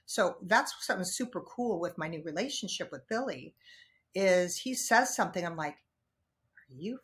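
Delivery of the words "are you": inner voice. Retold or imitated. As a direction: keep it inside your head. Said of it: "in my head".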